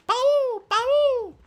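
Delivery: shrieking, very high and loud cries; panicked screaming. A narrator's reading. Feline screaming in terror at the giant stag. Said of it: "could still be heard".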